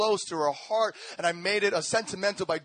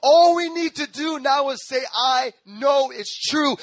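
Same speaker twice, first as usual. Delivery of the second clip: 1 rising preaching climax; 4 semitones higher, 5 dB louder than usual. Acted. Sermon climax.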